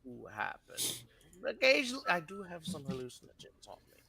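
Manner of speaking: squeaky high helium-like voice. Real, not acted. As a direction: speak as if full of helium. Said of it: "He flooded the whole room with helium".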